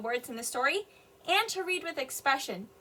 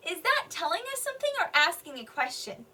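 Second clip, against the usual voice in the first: normal talking voice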